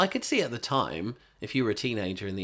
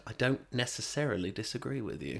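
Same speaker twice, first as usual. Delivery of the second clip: whisper yelling; 6 dB quieter than usual. Pretend. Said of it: "Why are you whispering that?".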